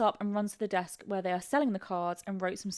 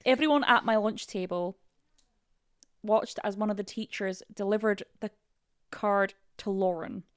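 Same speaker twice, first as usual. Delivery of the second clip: put-on halting, amateur Scottish accent; attempted Scottish accent. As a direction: read it in a rough Scottish accent. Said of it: "My, my friend Molly is Scottish".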